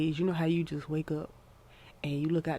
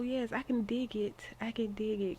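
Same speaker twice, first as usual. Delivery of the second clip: whisper; 5 semitones higher, 5 dB quieter than usual. Real, not acted. Muttering approval to herself.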